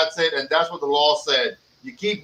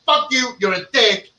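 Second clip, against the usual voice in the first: aggressive doll line; 4 semitones higher than usual. Pretend. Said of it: "really aggressive is gonna be".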